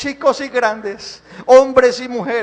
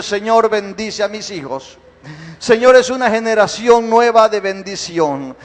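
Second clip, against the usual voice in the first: earnest blessing prayer, steady and devout; 2 semitones lower than usual. Acted. Pastor blesses children, marriages and the church in prayer.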